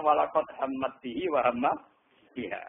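no stop after "bihi", pause on "biha"; common joined reading. Shown as a demonstration. Teacher showing the common reading, "bihi wa" joined, pause at "biha". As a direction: recite "hammat bihi wa hamma" linked, stopping only at "biha". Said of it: "umumnya kita bacakan".

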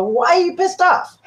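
mock confronting question. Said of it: "I go".

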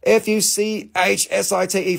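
letters of F U C H S I T E read one by one; spelling it out. Shown as a demonstration. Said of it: "Yes, I said it".

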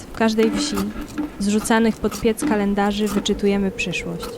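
usual speaking voice

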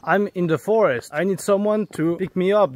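slow, high-pitched call for help; distressed, deliberate pleading; urgent plea. Real, not acted. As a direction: spell out your emergency to a stranger on the phone. Phoning for help after being robbed.

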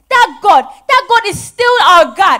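loud, emphatic declaration; fierce insistence. Acted. Mother loudly insists to her daughter that God is unchanged. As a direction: hammer each word home.

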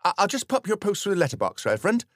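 Dorothy calling to the vicar, fast and excited; called excitedly. Acted. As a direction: call it out, thrilled with the gossip. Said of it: "called Dorothy excitedly".

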